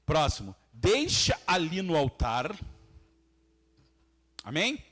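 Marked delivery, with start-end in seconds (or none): 0.7-2.6 scripture reading. Real, not acted. Reads scripture aloud to congregation.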